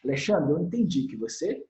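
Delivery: put-on mildly firm address to a child; measured firmness, no shouting; "aggressive language" demo. Shown as a demonstration. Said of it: "uma linguagem agressiva do Studio Move é". (tom levemente firme de demonstração)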